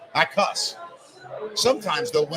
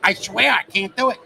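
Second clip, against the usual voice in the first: a hint of Buddy Hackett, higher and louder; mock-pleading old comic; 4 semitones higher, 5 dB louder than usual. Imitating Buddy Hackett swearing he can't cuss on the show. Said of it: "And that's how he talked".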